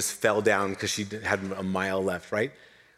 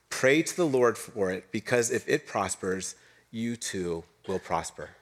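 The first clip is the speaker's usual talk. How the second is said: scripture reading. Acted. Preacher reading Jeremiah's letter to the exiles, solemn. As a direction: read the prophet's letter with weight.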